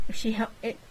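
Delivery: talking through saliva; needing to spit mid-line; mouth full of spit. Real, not acted. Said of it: "I had to spit".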